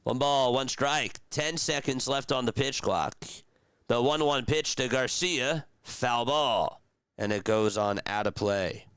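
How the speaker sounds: casual stream play-by-play; live play-by-play. Acted. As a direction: call the count like a broadcaster. Streamer calls the game live.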